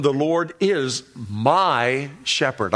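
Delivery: slow reading with "my" drawn out; stress on "my". Retold or imitated. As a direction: lean long on "my", as the reader did. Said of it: "I love the way he read that psalm".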